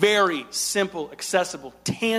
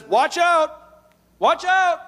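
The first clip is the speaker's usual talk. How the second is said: high loud cry of alarm, higher and louder; urgent warning; 10 semitones higher, 6 dB louder, much slower than usual. Retold or imitated. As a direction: sound the alarm twice, rising. Quoting Jesus warning.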